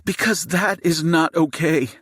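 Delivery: seething high-pitched outburst. A narrator's reading. Wife confronts the gunman holding her family, seething. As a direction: pour out furious, high indignation. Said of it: "Jade's seething voice shatters the silence".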